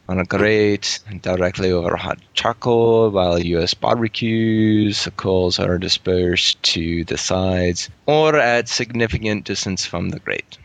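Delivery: lightly voiced Irish-Scottish brogue; a hint of Scottish-sounding Irish accent; put-on Irish accent. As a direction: keep reading in a loose Irish accent, near natural pitch. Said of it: "trying to pick apart his accent".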